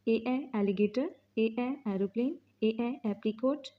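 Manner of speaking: slow sounding out, ए stretched before each word; phonics drill. Shown as a demonstration. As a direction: sound ए then the word, slowly. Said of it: "ए का sound होता है ए".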